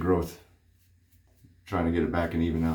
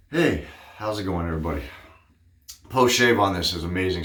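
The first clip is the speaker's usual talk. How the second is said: breathless after rinsing off; out of breath. Real, not acted. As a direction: talk while catching breath. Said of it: "I'm sound like I'm out of breath".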